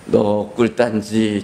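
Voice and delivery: drawn-out menacing hint; sly slow blackmail; slow sly threat. Acted. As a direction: dangle the secret slowly. Devil whispers the sin.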